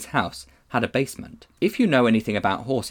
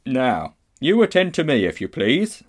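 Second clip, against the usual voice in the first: officious, higher-pitched in the middle; policeman; 4 semitones higher, 4 dB louder than usual. A narrator's reading. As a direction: take command with pompous politeness. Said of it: "said the policeman".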